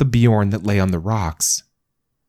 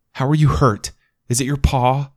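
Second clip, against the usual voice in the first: frightened questions; 7 semitones higher, 3 dB louder than usual. Acted. Dog bleeding in her arms.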